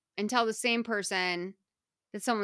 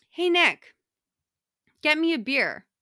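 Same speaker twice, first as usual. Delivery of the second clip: higher, louder pushy buddy voice; higher, louder voicing of Joey asking for a beer; casual demand; 6 semitones higher, 5 dB louder than usual. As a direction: toss it off like a friend grabbing a favor.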